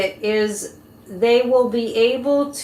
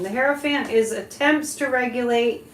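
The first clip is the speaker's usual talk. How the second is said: fortune teller. Real, not acted. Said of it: "I'm just gonna give you my psychic impression".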